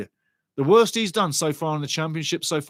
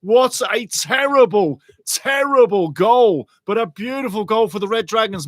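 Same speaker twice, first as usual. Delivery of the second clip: amazed; 4 semitones higher, 4 dB louder than usual. Real, not acted. Marvelling at own goal.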